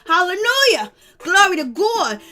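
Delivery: hammed-up churchgoer praising out loud; mock church praise. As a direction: throw up mock praise, drawing out the end.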